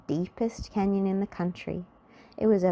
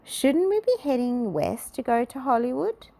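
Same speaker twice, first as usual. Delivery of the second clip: grumbling; 7 semitones higher than usual. A narrator's reading. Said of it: "grumbled Mister Grumpy".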